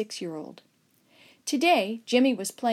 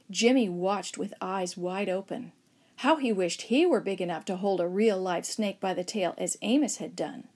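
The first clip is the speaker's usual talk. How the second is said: ordinary delivery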